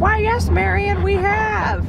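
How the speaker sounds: high, put-on talking-dog voice; mock-genteel dog reply, pitched high; voicing the dogs. Sitter answers as the dogs.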